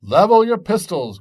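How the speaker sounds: captain shouting orders before a charge; commanding shout. Acted. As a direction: bark the command at full voice. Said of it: "cried Jack".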